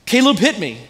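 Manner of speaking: a hint of a tearful little tattletale; retold whine through mild pretend tears; mock crying voice. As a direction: lightly imitate a crying child. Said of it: "in a crying voice, she says".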